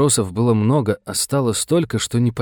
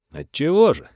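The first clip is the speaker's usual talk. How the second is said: higher, sly question; 7 semitones higher than usual. A narrator's reading. Lychkin slyly offers to help justice, sly. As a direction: ask it with a crafty lilt. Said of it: "лукаво прищурился Лычкин".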